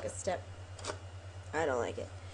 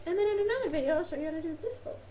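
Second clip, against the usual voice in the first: playful high voice; 8 semitones higher, faster than usual. Acted. Teasing a future video.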